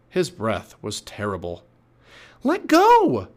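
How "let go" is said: high, loud demanding yell; shouted. A narrator's reading. Annie yelling in the pirate's face, shout. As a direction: yell it right into his face. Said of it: "Annie shouted into his face".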